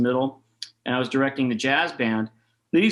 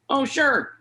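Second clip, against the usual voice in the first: retold reply; 12 semitones higher than usual.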